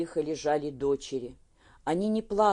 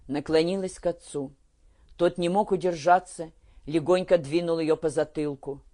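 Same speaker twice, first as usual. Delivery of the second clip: plain reading voice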